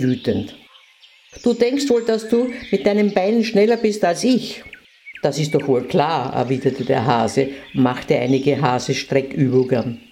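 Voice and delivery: put-on lively storytelling for children; fairy tale narration. A narrator's reading. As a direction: read it like a bedtime story to little kids.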